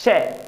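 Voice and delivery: ਸ਼ੈ with a hushing sh from the palate; palatal sh demo. Shown as a demonstration. Teacher sounding it out for children, palatal hushing ਸ਼ੈ. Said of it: "ਬੋਲ ਕੇ ਵੇਖੋ ਪਿਆਰੇ ਬੱਚਿਓ".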